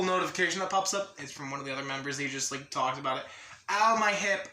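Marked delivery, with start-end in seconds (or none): 3.7-4.5 sudden louder, higher yelp of discomfort; in pain. Real, not acted. Streamer sitting awkwardly on a leg, pained. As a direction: wince through a complaint. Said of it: "I'm sitting on my leg in the really weird fashion".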